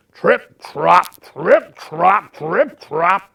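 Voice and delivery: very loud, punched steps; heavy trip-trop hooves. A narrator's reading. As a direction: stomp out each word. The biggest goat's heavy hooves.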